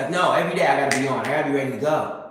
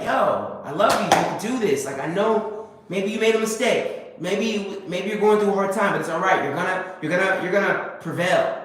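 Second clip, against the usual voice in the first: encouraging self-talk; 3 semitones higher than usual. Retold or imitated. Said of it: "Or are you gonna be like".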